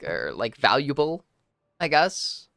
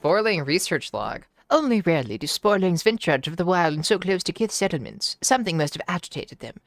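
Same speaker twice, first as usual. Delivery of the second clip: scary voice. Acted. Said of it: "when you do the scary voice".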